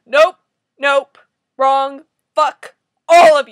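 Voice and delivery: loud, separate words with gaps; curt shouts building to full volume; angry rejection. Real, not acted. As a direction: fire off each word as a shout. Rejecting the comic's claim.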